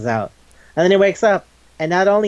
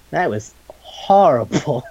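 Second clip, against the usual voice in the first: laughing; slower than usual. Real, not acted. Laughs at the retold insult.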